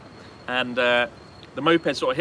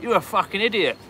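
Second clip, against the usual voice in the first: high, loud mock insult; hammed-up loud insult; 7 semitones higher, 5 dB louder than usual. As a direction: jeer at him like a rude Brit. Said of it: "you just be like".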